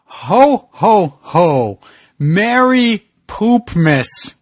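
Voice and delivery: lightly voiced jolly ho ho ho; mock Santa. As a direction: play a jolly Santa, slow. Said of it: "is the Grinch".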